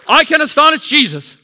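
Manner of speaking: high, loud model line for the church; declaration to repeat. Shown as a demonstration. Pastor modelling the words for the congregation, loud. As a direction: say it for them to echo. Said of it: "You need to say this".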